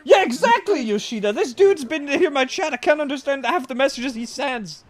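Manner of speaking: silly high voice. Pretend. Mocking a chatter's voice.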